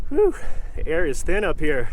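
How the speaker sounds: winded after the climb; puffing between words; out of breath. Real, not acted. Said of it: "Out of breath".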